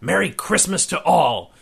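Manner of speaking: high, loud Santa-style holler; jubilant shout. A narrator's reading. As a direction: shout it out to the whole world, ending in booming ho-ho-hos. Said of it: "and shouted".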